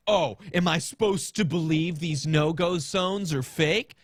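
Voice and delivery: imitating a sarcastic skeptic, lightly; mock sneering question; a touch of put-on sarcasm; sarcastic reading. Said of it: "like I'm being a sarcastic sack of shit".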